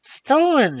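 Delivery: very high stunned echo of the word "Stolen?"; shocked cry. A narrator's reading. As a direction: fling "Stolen?" back in disbelief. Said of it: "he cried".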